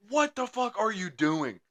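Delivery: high, slow mock outrage; retold indignation. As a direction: stretch out an exasperated retold question. Retells confronting the other driver.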